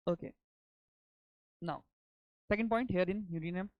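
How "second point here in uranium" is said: dictating. Shown as a demonstration. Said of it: "let me dictate now".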